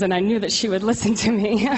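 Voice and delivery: real tears breaking into the words; choked up. Real, not acted. Testifying about her mother, fighting back tears. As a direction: voice catching on tears as she speaks.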